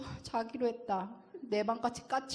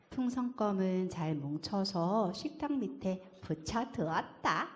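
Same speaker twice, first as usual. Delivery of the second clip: ordinary delivery, nothing marked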